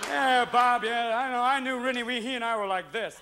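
comic kennel small talk; working dog chatting. Acted. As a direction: chat like one dog to a colleague. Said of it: "End of the day, you see the dog sitting in their kennels going".

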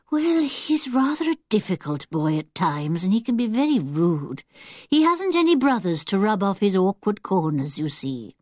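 lightly voiced lady, mildly apologetic; concerned older lady. Old lady explains her difficult boy to Julian, mildly concerned.

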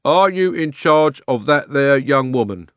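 loud, slow, ponderous questioning; officious policeman. A narrator's reading. Policeman questioning Uncle Andrew, slow and officious. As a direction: spell it out with heavy authority.

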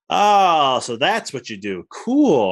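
re-enacted aha moment, drawn out; impressed mock discovery; acted realization. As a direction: play the penny dropping, high on "Oh" and "Cool". Acting out a past realization.

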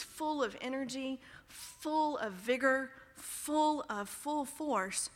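slow, weighty repetition with stretched words; deliberate, drawn-out emphasis; emphatic. Real, not acted. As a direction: hit each "full" hard and draw it out. Building emphatic description of Paul.

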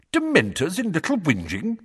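high, rising surprised question; great surprise. A narrator's reading. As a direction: ask in disbelief. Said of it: "in a tone of great surprise".

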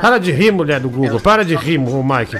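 hammed-up demand to stop laughing; mock scolding. Scolding the laughing sound clip. (bronca de brincadeira mais alta)

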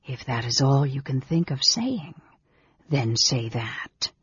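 sneering, dragging out the last words; a contemptuous, hushed mage; whispering sneer. Acted. Mage answering his brother's protest, whispering sneer. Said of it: "The whispering, sneering voice".

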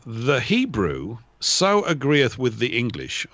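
put-on slow, measured recital of an old quote; quoting Tyndale. Paraphrasing a translator's note, slow quoting delivery. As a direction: recite it slowly and deliberately. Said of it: "I'm paraphrasing, it was something like this".

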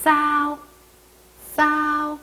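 싸오 with a slightly tense s, high level pitch; tense s sound. Shown as a demonstration. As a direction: say 싸오 with the s between ㅅ and ㅆ. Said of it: "약간 쌍시옷 느낌이".

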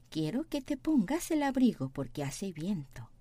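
very slow, careful Spanish; slow model reading. Shown as a demonstration. Teacher reading the sentence slowly for students. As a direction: read it slowly for the class. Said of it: "teacher models slowly".

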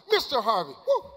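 mock surprised whoop; fake surprise. Pretending to be surprised by the crowd, mock whoop. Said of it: "I tried to act surprised".

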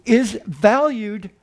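slow, drawn out, weighing each word; slow emphasis. Acted. Preacher to congregation on valued meal time, slowly. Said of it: "preacher slows for emphasis".

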